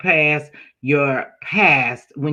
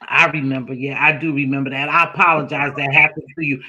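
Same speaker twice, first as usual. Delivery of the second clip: sincere apology; 5 semitones lower than usual. Shown as a demonstration. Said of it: "validate and say".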